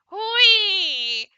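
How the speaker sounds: high squeaky joy at found loot; squealing droid cheer. Pretend. Little droid squealing over found treasure with glee. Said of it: "R two is like".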